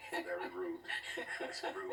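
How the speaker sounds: laughing it off, pitch jumping way up; amused protest that breaks into laughter. Real, not acted. Father teased about having another baby, answering through real laughter.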